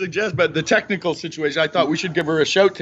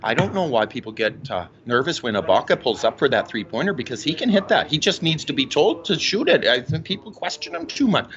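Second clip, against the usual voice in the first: low, lightly voiced knowing mom; a hint of his mother explaining the game; imitating mom; 3 semitones lower than usual. Son voicing mom on Ibaka shooting threes. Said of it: "She'll say".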